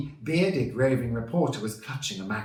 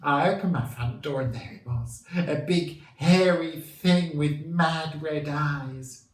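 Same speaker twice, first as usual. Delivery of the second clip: higher, louder voice of a worried local witness; worried middle-aged lady; 7 semitones higher, 6 dB louder than usual. A narrator's reading. Worried resident tells TV reporter about the beast, in a high voice. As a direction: draw out the horror like a shocked neighbour. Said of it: "a worried-looking middle-aged lady".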